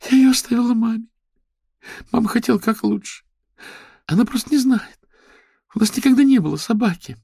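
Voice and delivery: put-on very high, loud wailing girl. A narrator's reading. Lera wails that it was her mother's fault. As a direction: wail the excuses through tears.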